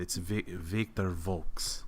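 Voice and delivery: slow, soft name with an Eastern European accent; slight Eastern European accent. Shown as a demonstration. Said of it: "it's a bit of an accent".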